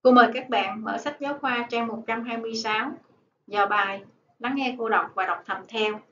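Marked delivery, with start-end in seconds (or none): none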